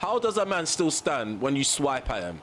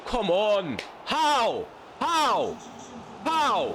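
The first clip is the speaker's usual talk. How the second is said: disbelieving cries; 10 semitones higher, much slower than usual. Real, not acted. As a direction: cry out in disbelief each time. Disbelief at missed chance.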